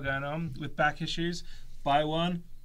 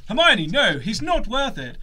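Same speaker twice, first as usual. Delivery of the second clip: Ron voice; 7 semitones higher, 9 dB louder than usual. Acted. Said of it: "dual roles of Hermione and Ron".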